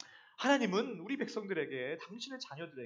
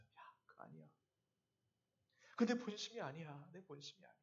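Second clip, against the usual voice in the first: God speaking gently; 7 dB quieter than usual. Retold or imitated. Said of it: "하나님 말씀하세요".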